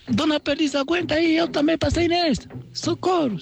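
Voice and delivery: very high teasing voice; mock her cries from outside; mocking rabbit. Rabbit taunting the dying partridge, very high mocking voice.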